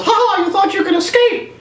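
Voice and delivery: high, far-off cartoon villain gloat; mock Mickey gloating. Mickey gloating at the captured gladiator, high squeak. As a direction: crow like a cartoon mouse.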